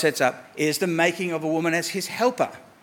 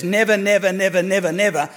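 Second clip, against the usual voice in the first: each "never" hit firmly; repeated never stressed. Shown as a demonstration. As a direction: stack the "never"s, each one pressed. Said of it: "if you keep adding nevers".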